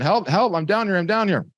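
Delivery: high, insistent calls for rescue; acted-out high-pitched cry for help; mock yelling for help. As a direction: yell up from the bottom of a hole. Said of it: "He's yelling".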